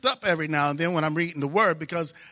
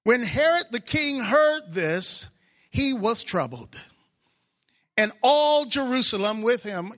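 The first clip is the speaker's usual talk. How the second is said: slow, solemn reading of verses; scripture reading; 2 semitones higher, slower than usual. Acted. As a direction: read the passage with weight.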